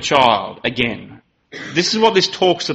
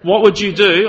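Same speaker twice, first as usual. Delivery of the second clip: put-on voice to a small child; 4 semitones higher than usual. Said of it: "I got down and I went".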